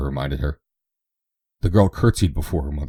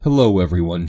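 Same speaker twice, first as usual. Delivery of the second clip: excited greeting; 3 semitones higher, 6 dB louder than usual. A narrator's reading. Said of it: "she cried".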